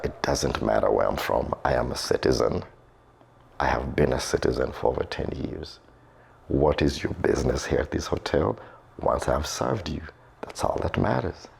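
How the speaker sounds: low, subdued voice of an offended man; retold curt rebuff. Offended hotel worker rebuffing a fellow African's question, retold low and curt.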